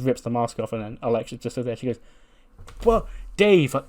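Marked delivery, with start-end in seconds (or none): 2.8-3.8 high-pitched flustered imitation; flustered mock greeting. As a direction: imitate a thrown employee, pitched well up. Alexa flustered facing her boss.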